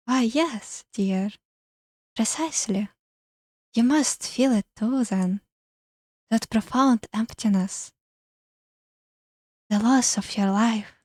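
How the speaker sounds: airy, eerie ghost voice; an eerie lonely spirit. Acted. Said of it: "airy voice".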